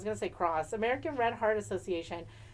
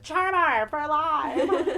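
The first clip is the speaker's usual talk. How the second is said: laughing; 3 semitones higher, 4 dB louder, much slower than usual. Retold or imitated. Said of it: "I just went".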